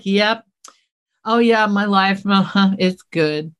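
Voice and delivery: mock-complacent, slow and unbothered. Speaker imitates someone settled in their life, complacent. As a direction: act out a slow, self-satisfied shrug of a voice. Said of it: "I don't wanna be complacent".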